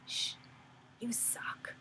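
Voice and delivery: lightly acted shushing inner critic; half-whispered mock put-down; gremlin voice. Gremlin shushes a child's singing, lightly acted put-down. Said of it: "the gremlin voice would come up".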